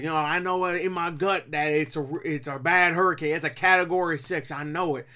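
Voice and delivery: mock Southern-accented know-it-all; imitated country accent. Reviewer imitating the hero predicting the hurricane, country accent. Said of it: "one of those guys that's just like".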